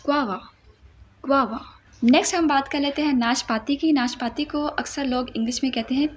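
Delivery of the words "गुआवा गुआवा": गुआवा as one quick word, ग्वावा; correct pronunciation. Shown as a demonstration. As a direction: say गुआवा fast in one flow. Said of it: "गु आवा नहीं". (गुआवा जल्दी से एक साथ)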